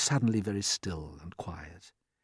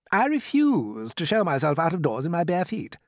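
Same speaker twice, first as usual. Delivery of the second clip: higher, forceful refusal; indignant centipede; 7 semitones higher, 4 dB louder than usual. A narrator's reading. Centipede refusing to go out barefoot, higher indignant voice. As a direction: protest it grandly.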